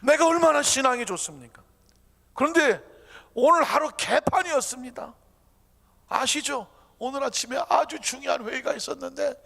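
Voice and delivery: high-pitched, indignant pleading; arguing complaint. Acted. Believer arguing with God about oversleeping, complaining. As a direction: protest as if demanding an explanation. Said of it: "그리고 따졌습니다".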